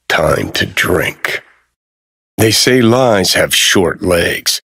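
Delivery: slow, brooding detective voice-over; slow hard-boiled storytelling; pulp noir narrator. Acted. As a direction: narrate it like a world-weary gumshoe. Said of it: "out of a pulpy noir thriller".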